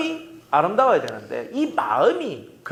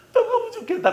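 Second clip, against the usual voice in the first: laughing mock wish. Mock quote of restless self.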